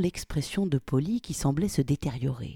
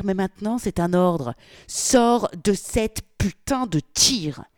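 louder, furious orders; exploding again; 3 semitones higher, 4 dB louder than usual. Acted. Polly explodes at Victoria, furious loud orders. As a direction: blow up at her again. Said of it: "avant d'exploser de nouveau".

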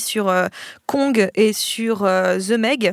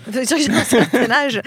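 laughing echo; 2 semitones higher, 4 dB louder than usual. Real, not acted. Mock echo of teasing remark.

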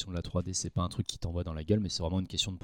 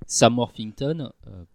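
mouth full; 6 dB louder than usual. Real, not acted. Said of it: "J'ai une chips dans la bouche".

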